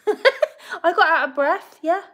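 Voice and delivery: high, slow, through laughter; laughing. Real, not acted. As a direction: laugh it out while speaking. Laughing about the stairs.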